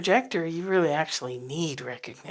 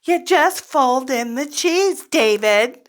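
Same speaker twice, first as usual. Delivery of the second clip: mock condescending; 8 semitones higher, 7 dB louder, slower than usual. Beings answer condescendingly.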